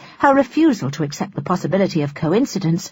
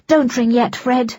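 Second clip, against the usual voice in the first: imploring; 6 semitones higher than usual. Acted. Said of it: "she implored".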